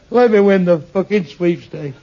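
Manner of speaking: slow, fed-up demand, leaning on fucking; exasperated demand. Acted. A desperate man demanding God's help, slow and exasperated. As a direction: spit out the demand at God. Third week begging God angrily.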